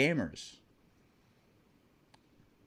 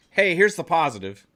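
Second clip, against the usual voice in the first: louder mock-upbeat line, laughing; 2 semitones higher, 5 dB louder than usual. Streamer mocking the Xbox memo's cheer, laughing. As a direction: send up the cheerful memo.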